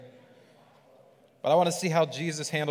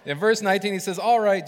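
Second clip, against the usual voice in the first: "All right" called out much louder and higher; louder, emphatic retake; 5 semitones higher, 10 dB louder than usual. Shown as a demonstration. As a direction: repeat it with a punch on "All right".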